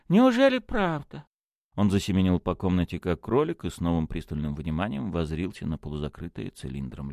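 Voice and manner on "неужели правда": high-pitched disbelief; amazed question. A narrator's reading. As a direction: ask in astonished wonder, voice raised high. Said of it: "воскликнул священник". (изумлённо, высоким голосом)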